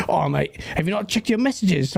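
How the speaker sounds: put-on Cockney caller, badly done; a loose, amateur Cockney accent; attempted Cockney impression. Friend phoning the host at work, imitated in rough Cockney. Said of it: "I can't do Cockney".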